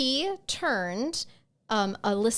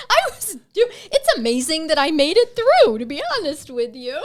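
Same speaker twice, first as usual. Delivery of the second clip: put-on Valley Girl voice; 6 semitones higher, 8 dB louder than usual. Teasing her co-host with the Valley Girl voice. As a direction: play the ditzy Valley Girl telling the story. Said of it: "I really hate that voice".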